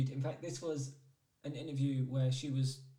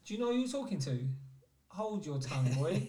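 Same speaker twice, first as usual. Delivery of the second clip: Vinnie Jones threat; 3 semitones higher than usual. Retold or imitated. Retelling how a hard man would threaten a mouthy host, mock menace. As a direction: play the hard man putting a mouthy host in his place. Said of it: "Vinnie would be like".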